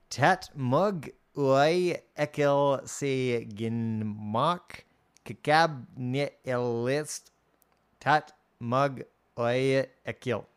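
slow, drawn-out reversed-sounding gibberish; backwards speech. Retold or imitated. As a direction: sound out the reversed line slowly. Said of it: "sounds very much like he's talking backwards".

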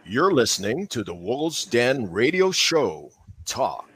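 radio announcer plug. Shown as a demonstration. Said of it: "Pucha, ang ganda".

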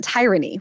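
"tyranny" as TIE-ranny; reader's mispronunciation. Retold or imitated. Retelling a colleague's mistake, "tyranny" said TIE-ranny. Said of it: "heard someone pronounce it out loud".

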